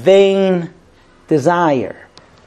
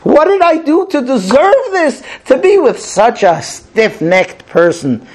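theatrical flair; 4 semitones higher than usual. Acted. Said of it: "She turns in the theatrical flair and speaks".

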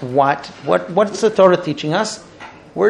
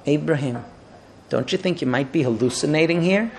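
put-on old man; 4 semitones lower, 6 dB quieter than usual. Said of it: "along comes an old man and says".

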